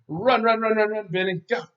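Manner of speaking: loud, high, rapid-fire urging; urging someone on. Real, not acted. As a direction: cheer them on to run off, high and loud. Shooing Benny away before lesson.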